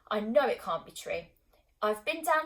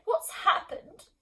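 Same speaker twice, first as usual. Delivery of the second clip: slow, drawn-out moaning mum; 11 semitones higher, 4 dB louder, much slower than usual.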